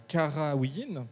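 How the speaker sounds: Karawiyin very slowly, sounded out syllable by syllable; prononciation hésitante. Real, not acted. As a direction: feel your way carefully through the unfamiliar name Karawiyin. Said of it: "je suis désolé pour la prononciation". (Karawiyin prononcé très lentement, en détachant les syllabes)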